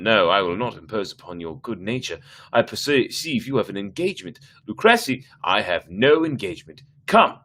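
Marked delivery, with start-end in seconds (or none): 4.7-7.4 brushing off the objection; lightly voiced tipsy impatience; impatient insistence. Fortunato dismissing, insistent.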